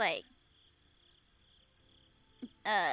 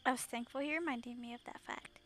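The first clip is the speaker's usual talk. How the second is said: measured, subdued first-person narration; understated reflective storytelling; story narration; 3 semitones lower, 7 dB quieter, faster than usual. Acted. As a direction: read the story aloud, gently and evenly. Reads story aloud.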